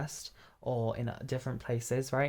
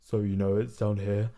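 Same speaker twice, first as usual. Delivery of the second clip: low chest voice; 5 semitones lower than usual. Shown as a demonstration. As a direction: drop the pitch down low and full. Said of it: "this mechanism speaking in right now".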